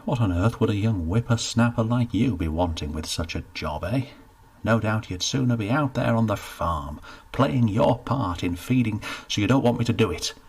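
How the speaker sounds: forced cheer, lightly voiced; jolly him along; a hint of a hearty official; jovial steward.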